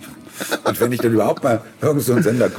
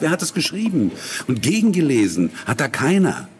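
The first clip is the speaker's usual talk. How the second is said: higher, fast indignant rant; indignant retort; 5 semitones higher than usual. Retold or imitated. Replaying his exasperated reply to the ad director, pitched up. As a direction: fire back at the director, exasperated.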